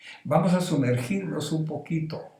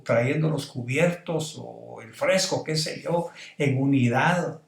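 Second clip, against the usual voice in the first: voz de Jesús hablándole a Lázaro; 2 semitones higher than usual. Retold or imitated. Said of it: "se lo voy a decir con estas palabras mías".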